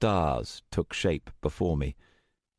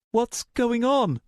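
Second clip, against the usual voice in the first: higher, slow puzzled voice; puzzled young woman; 3 dB louder, slower than usual. Acted. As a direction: ask in puzzlement. Luna puzzled.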